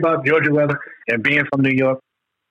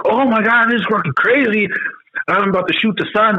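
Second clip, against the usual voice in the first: mock complaining; 8 semitones higher than usual. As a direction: ham up an overdramatic complainer. Mocks complaining New Yorkers.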